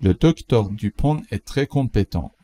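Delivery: slow, careful example sentence; slow model read. Shown as a demonstration. Teacher reads the example slowly for learners. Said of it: "teacher models slowly".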